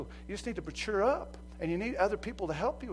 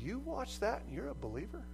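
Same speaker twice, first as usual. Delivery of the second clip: lightly voiced busybody calling you out; a hint of a prying church member; nosy church member; 8 semitones higher than usual. Church people catching a believer's sins, mock-shocked. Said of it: "people are gonna go".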